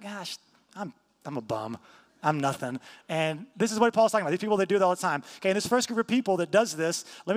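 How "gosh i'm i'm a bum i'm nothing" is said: softer, lower, deflated mock moping; self-pitying mope. Preacher mimicking his own self-pity, lower and softer mock mope. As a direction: sink into a half-joking gloomy sigh. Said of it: "I'm like".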